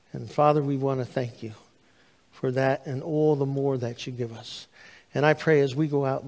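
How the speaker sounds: earnest pastoral prayer, swelling then softening; closing prayer. Acted. Pastor leading his church in closing prayer, earnest. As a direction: pray over the congregation.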